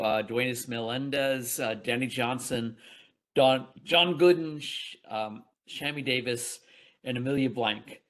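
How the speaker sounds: slightly muffled speech, numb mouth; muffled after dental work. Real, not acted. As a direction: talk through a numb mouth after the dentist. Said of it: "I apologize if I'm a little muffled".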